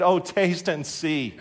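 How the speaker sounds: playful mock psalm over a donut; delighted donut exclamation. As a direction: relish every word, then burst out on good. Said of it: "I said".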